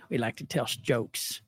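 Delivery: lightly voiced folksy president; halting, half-hearted presidential impression; George W. Bush. Host attempting a president's speech, light impression. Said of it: "I stopped at, at Bush".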